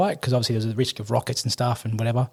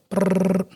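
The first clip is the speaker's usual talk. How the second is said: buzzing brrr; 7 semitones higher than usual. Retold or imitated. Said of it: "like, a million miles a minute".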